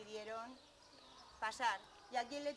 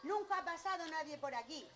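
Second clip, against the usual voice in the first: raised, louder storybook scolding; angry ogre; 5 semitones higher, 5 dB louder than usual. Acted. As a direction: object crossly as the ogre. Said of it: "el ogro, muy enfadado".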